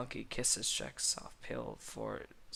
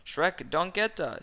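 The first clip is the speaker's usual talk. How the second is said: loud, high, slow exclamation; dramatic call; 7 semitones higher, 7 dB louder than usual. A narrator's reading. Gingerbread man entering, calling out loud and high. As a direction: announce both names with a theatrical swoop. A newcomer calls out both names.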